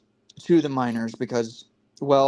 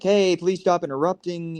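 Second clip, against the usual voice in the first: mildly frustrated retelling; 5 semitones higher than usual. Retold or imitated. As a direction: imitate someone a bit fed up. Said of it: "a bit of a frustrated, angry way".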